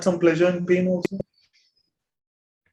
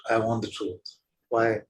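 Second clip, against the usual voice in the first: normal talking voice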